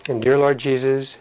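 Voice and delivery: prayer line for the church to repeat; leading prayer. Acted. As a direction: lead the sinner's prayer phrase by phrase. Leads repeat-after-me prayer.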